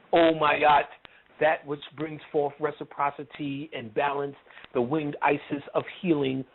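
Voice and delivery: lofty, measured invocation; mock dignified. Showing a spirit he could talk like that, mock dignified. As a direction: intone it like a grand ceremonial prayer. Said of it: "you can't talk like that".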